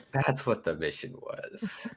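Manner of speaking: soft, slow aside; mumbled under breath. Acted. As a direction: mumble it to yourself. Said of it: "I mumble under my breath".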